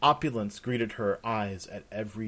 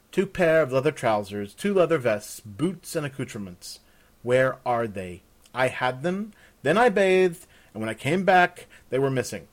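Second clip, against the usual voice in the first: louder, insistent listing of missing things; irritated demand; 3 semitones higher, 6 dB louder than usual. Acted. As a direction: press hard for answers, annoyed. Annoyed guest demands her missing leathers.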